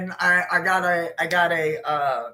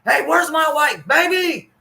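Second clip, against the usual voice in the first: high, loud shouting for the wife; retold yelling; 10 semitones higher, 5 dB louder than usual. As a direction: call out across the room, loud and high. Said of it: "he'd start yelling".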